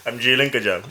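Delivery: put-on playful South Asian accent, lightly done. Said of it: "That was a really good brown accent".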